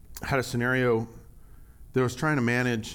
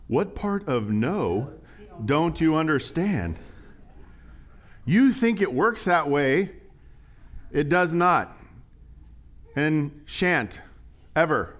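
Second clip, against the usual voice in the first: dad's longer lecture; 3 semitones higher, slower than usual. Retold or imitated. Dad lecturing a persistent little boy, slow and stern. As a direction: spell it out slowly like an exasperated dad. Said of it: "he had this longer phrase".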